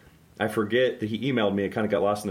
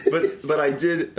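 put-on slow, higher New York accent; 6 semitones higher, slower than usual. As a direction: lay the bad New York accent on thick. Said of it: "it's me, Matt".

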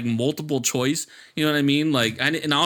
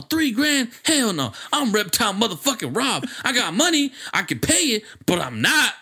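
indignant retelling; 6 semitones higher than usual. Retold or imitated. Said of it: "He's all".

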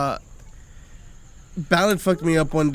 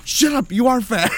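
laughing; 7 semitones higher, 7 dB louder than usual. Retold or imitated. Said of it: "Lenny runs out of nowhere".

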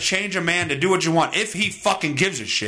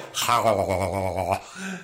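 wagging tongue noise; 13 semitones lower, 3 dB quieter than usual. Acted. Imitates noise of the act.

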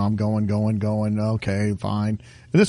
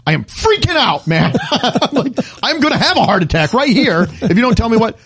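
mock panic; 6 semitones higher than usual. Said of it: "I said".

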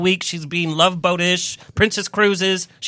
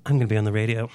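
lower, softer mock mom voice; imitating mom bragging; 9 semitones lower, 6 dB quieter, much faster than usual. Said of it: "All week long".

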